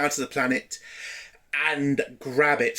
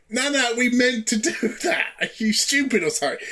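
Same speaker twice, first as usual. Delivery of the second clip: higher, mocking scorn with a laugh; scornful woman; 8 semitones higher, faster than usual. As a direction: retort as if talking to an idiot. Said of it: "kinda tell in her voice".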